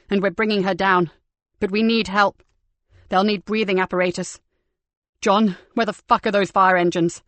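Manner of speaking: shouting orders over the fire; urgent shouting. Acted. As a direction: bark urgent commands through the smoke.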